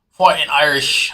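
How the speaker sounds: a weak, slowed stab at an Irish accent; half-hearted mock Irish brogue; bad Irish accent. Shown as a demonstration. Hyping the Notre Dame squad to viewers, in a bad Irish accent. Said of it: "I can't do a good Irish accent".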